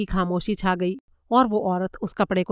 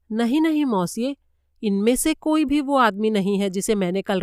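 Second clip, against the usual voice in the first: insistent German maid; 3 semitones higher than usual. Acted. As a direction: lift the voice and hold your ground as the maid.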